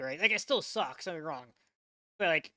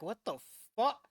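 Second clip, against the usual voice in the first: lightly acted disbelief, pitch jumping up; mock bewildered bystander, speeding up at the end; stunned Russian soldiers; 3 semitones higher, much faster than usual. Reactor voicing Russians who saw the skier, mock disbelief. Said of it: "the Russians are like".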